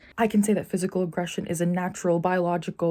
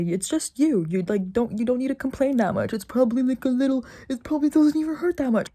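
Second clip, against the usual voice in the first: dismissive voice; 4 semitones higher than usual. Retold or imitated. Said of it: "some ignorant people might say".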